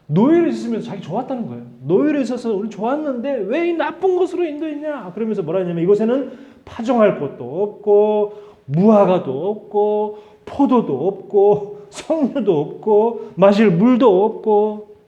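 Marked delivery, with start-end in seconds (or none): 1.8-5.1 much higher, sneering complaint; whiny imitation of the ungrateful people; mocking whine. 5.8-15.0 slow, higher whiny listing; mock grumbling, slowly; drawn-out complaint. Mimicking the people's complaint.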